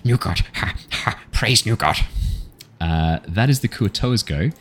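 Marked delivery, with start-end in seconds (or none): 0.0-2.0 lightly high fish creature cheer; a hint of an excited fish-man; fish-man praising. Kuo-toa swimming up to Niles, eager praise. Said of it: "and goes".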